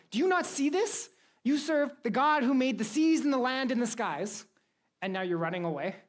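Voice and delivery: high-pitched acted disbelief; incredulous. Sailors to Jonah who runs from God, incredulous. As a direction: challenge them in high, baffled astonishment.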